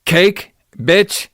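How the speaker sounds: put-on old guy demanding cake. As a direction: squawk it like the cranky old man. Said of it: "the old guy screaming for cake".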